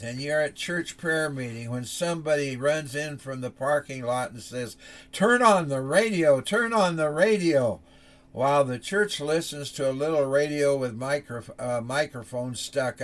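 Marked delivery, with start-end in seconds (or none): 5.1-7.8 raised, urgent plea; urgent call. Acted. Man running in from the parking lot, urgent and loud. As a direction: burst in with the news, calling it out.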